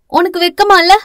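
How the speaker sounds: put-on high, defiant girl's comeback; cheeky high-voiced challenge; disrespectful retort. A narrator's reading. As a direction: throw the question back, high-pitched. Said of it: "பிரதீப்பை மரியாதை இல்லாமல் பேச".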